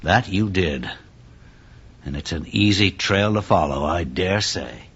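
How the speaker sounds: low, soft musing; subdued. Acted. Inspector examines blood trail with bartender, low hushed musing. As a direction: speak quietly while studying the evidence.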